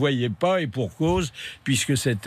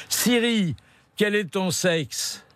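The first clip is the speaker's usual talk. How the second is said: high, slow question to a machine; addressing a voice assistant; 5 semitones higher, slower than usual. Real, not acted. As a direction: ask it slowly and distinctly. Talking to the Siri voice assistant.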